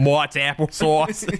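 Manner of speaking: slow, laughing imitation of Mott's applesauce; drawn out through laughter; laughing mock echo. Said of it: "it sounded like you said Mott".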